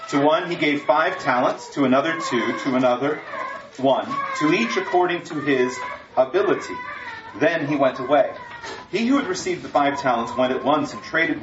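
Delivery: measured, solemn Bible reading; sermon scripture read. Acted. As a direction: read the parable to the congregation. Reads scripture passage aloud.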